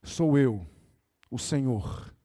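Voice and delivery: deep, calm voice of God; low, composed divine voice; voice from above. Acted. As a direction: answer low and unhurried, like the Lord himself. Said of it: "escuta uma voz assim".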